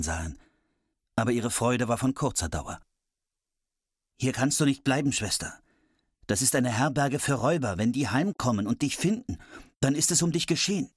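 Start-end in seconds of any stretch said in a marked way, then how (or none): 4.2-10.9 urgent warning. Acted. Brothers warn their sister.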